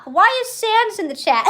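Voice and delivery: high-pitched, cracking up; amused squeal of disbelief; laughing. Real, not acted. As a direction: ask it as laughter takes over. Breaks up at a chat message.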